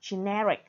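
generic with the stress on its middle syllable; ge-NER-ic, stressing NER; stress on second syllable. Shown as a demonstration. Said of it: "tính từ nhấn âm thứ hai". (generic: nhấn âm thứ hai)

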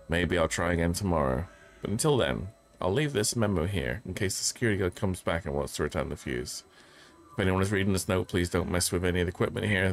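steady note-reading voice; reading aloud. Acted. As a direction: read the memo out evenly. Reads a second in-game memo.

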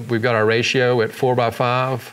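usual speaking voice

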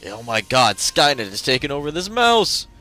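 loud, slow mock panic; mock alarm. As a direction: cry out in fake terror. Mock alarm at robot mouse.

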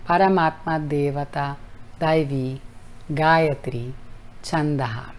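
gentle closing recitation; mantra recitation. Shown as a demonstration. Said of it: "desglosar para enseñar la pronunciación".

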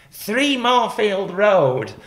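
high, loud, very drawn-out call; long-distance shout. Retold or imitated. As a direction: shout the address slowly across a distance. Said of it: "and she shouts".

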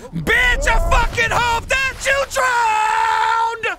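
very high, loud, drawn-out rage; furious scream. Real, not acted. Gamer screaming at the game after falling. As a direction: scream it with all your fury.

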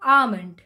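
almond as ahmond; almond silent l. Shown as a demonstration. Teacher modelling almond. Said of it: "So it'll be almond".

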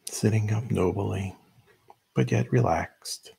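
measured meditation guide with long pauses; unhurried instructions, leaving room to breathe between phrases; guided meditation. Real, not acted. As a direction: lead them gently into stillness, phrase by phrase.

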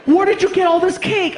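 high, loud scolding yell; girlfriend shout. Retold or imitated. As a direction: shriek at him like the angry girlfriend. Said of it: "girlfriend scolding".

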